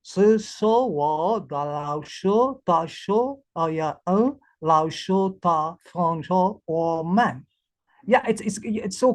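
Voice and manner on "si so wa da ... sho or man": sounds out the Chinese syllables one at a time; slow pinyin read-out. Shown as a demonstration. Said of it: "For example, you can see thi".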